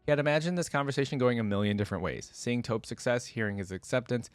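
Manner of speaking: measured storytelling read; steady audiobook narration of a fantasy tale; story narration. A narrator's reading. Reads the story aloud.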